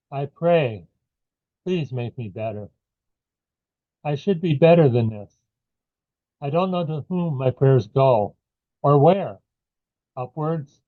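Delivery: measured poem recital, short phrases with falling ends; poetry reading. Acted. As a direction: read it as a prayer-like poem, pausing between lines. Reads own poem aloud.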